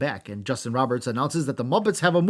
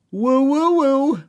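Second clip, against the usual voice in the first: Zack Ryder woo; 12 semitones higher, 7 dB louder, much slower than usual. Retold or imitated. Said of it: "Dolph has a match with".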